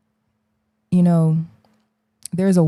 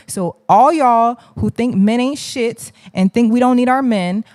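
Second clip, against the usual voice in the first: higher, mocking sing-song offer; sarcastic mockery; 5 semitones higher than usual. Real, not acted. To women who call men worthless, sarcastically higher. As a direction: taunt them with a fake sweet offer.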